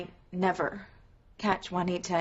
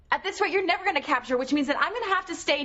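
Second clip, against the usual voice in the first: bitter laugh; 9 semitones higher, faster than usual. Acted.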